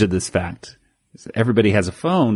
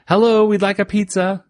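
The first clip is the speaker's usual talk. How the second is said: yelling into the phone; 9 semitones higher than usual. Retold or imitated. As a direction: holler for a pizza, pitched way up. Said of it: "they yell".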